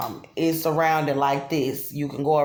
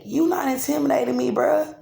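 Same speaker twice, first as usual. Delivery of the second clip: much higher, defiant voice telling them off; high-pitched retort; 8 semitones higher than usual. Retold or imitated. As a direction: fire it back at them, pitched way up. Voicing her own retort at the men outside.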